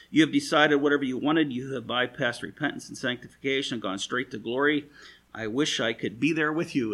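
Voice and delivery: lightly mocking false envy; a hint of sneering congratulation; Paul teasing the church, light sarcasm; sarcastic paraphrase. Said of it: "is basically what he's saying".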